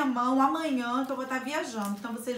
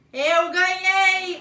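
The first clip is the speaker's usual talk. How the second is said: triumphant cheer; 5 semitones higher, 7 dB louder, much slower than usual. Real, not acted. Mom wins slime contest.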